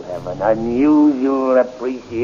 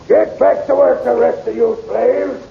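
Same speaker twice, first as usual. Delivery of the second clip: barked order; 11 semitones higher than usual. Acted. Captain shouting the slaves back to work. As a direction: bark at the slaves.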